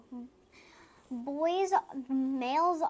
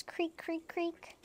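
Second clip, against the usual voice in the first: higher-pitched creaks; creaking rocker; 5 semitones higher, slower than usual. A narrator's reading. Child reading baby rocking, high creaks. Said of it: "The baby sits and rocks".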